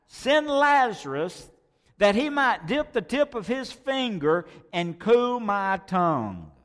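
high, loud begging for relief; crying out. Acted. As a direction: plead for one drop of water. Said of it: "he cried".

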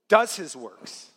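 slow, pointed "Does his works"; stressed ending. Shown as a demonstration. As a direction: drop the line slowly onto "Does". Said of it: "Jesus says".

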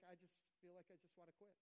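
soft, subdued mock giving up; discouraged. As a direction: act out quietly wanting to quit. Voicing a weary, discouraged believer.

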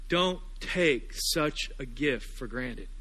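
very slow, drawn out plea; a slow pastoral plea over music; slow pleading. Acted. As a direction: stretch every word, pleading.

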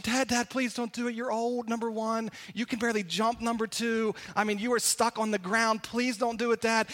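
a hint of kids begging their dad; pleading kids. Kids beg dad not to jump.

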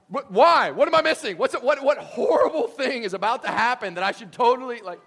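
loud, high, frantic questioning; mock panic. Traveler answers a local's do not worry, mock panic. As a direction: demand answers in hammed-up terror.

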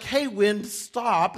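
high, loud order to the wind; a hint of a futile command; mock command. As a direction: bark it at the sky.

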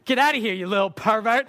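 put-on a little boy yelling his rude line proudly; kid blurting it out. Young boy shouting at the uncle arriving at the party.

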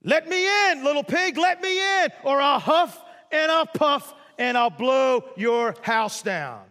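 high, loud wolf shout, huffing slowly; big bad wolf. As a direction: roar it like a hammed-up wolf threatening the pig. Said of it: "And he said".

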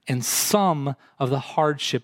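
"some" drawn out and set apart; stress on SOME. Real, not acted. Preacher qualifying the cause of hardship, stress on "some". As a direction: lean on "some", then a brief pause. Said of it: "I emphasize that word some".

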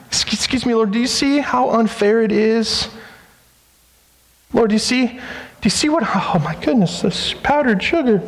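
lightly voiced flustered hostess; a hint of whiny protest to Jesus; complaining Martha. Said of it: "what's her voice like".

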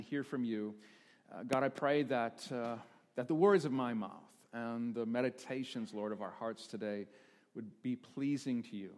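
measured prayer, softening toward the amen; opening prayer. Real, not acted. Pastor prays for the congregation before the message, softening reverently.

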